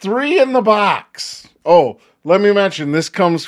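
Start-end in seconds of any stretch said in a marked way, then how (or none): 0.0-1.5 slow, higher attempt at a Kiwi accent. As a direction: have a rough go at a New Zealand accent. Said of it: "is that your Kiwi accent".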